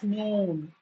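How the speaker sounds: NOON with a long oo; long double-O demonstration. Shown as a demonstration. Teacher explaining the double O, lengthened NOON. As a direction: draw out the oo in NOON. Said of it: "that's why you are pronouncing it as".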